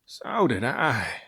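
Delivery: slow, tired sea serpent voice; weary sigh. A narrator's reading. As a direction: breathe it out, worn out. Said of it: "sighed the Serpent".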